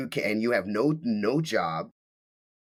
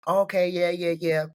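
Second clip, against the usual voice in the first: high, louder sing-song fake yeses; mock sweet agreeing; 9 semitones higher, 4 dB louder than usual. The wife backing off once caught, mock sugary. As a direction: hurry to agree and seem pleasant. Wife's voice mimicked again.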